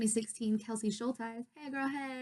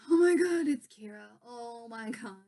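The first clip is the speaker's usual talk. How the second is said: retold fangirl freak-out; mock freak-out; 5 dB louder than usual. Spotting Kara at the pageant, freaking out. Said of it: "Freaking out".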